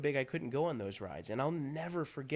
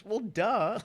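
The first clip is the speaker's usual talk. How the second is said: higher, louder, mocking well duh; sarcastic duh; 9 semitones higher, 7 dB louder than usual. Real, not acted. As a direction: scoff at the obvious advice. Sarcastic retort to doctors.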